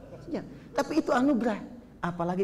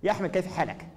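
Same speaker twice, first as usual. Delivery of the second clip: put-on native Arabic accent; 3 dB quieter than usual. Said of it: "bahasa Arab nggak kelihatan orangnya".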